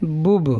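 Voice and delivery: بب read with the u vowel, bub; sounding out bub. Shown as a demonstration. Teacher shows how بب sounds with pesh. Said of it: "تو اس طرح pronunciation کریں گے تلفظ".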